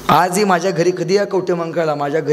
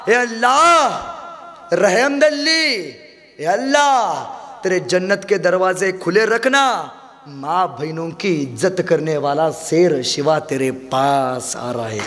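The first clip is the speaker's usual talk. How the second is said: Aurangzeb praying; slower than usual. Acted. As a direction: plead slowly with Allah, fading at the end. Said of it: "खुदाचा आभार मानत म्हणाला".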